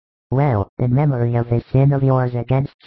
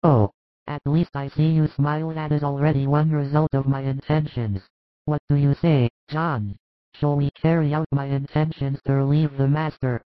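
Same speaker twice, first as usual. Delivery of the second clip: James, ardent disciple; 3 semitones higher, 4 dB quieter than usual. A narrator's reading. James pleading his love to grieving Jesus, hushed and earnest. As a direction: beg him to believe you, hushed and earnest.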